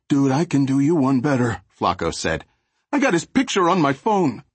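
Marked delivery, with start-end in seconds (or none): 0.1-1.6 high, chatty street-thug voice; gangbanger voice. Acted. 2.9-4.4 high, chatty street-thug voice; gangbanger voice. Acted.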